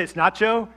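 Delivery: "nacho" said for "not yours"; southern-style "nacho" with a ch; slurred NACHO. Shown as a demonstration. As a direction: run "not your" together into "nacho". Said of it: "I would say".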